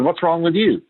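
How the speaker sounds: mildly snapped challenge, re-enacted; accusing tone. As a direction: imitate an exasperated parent's accusing question. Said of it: "in that tone of voice".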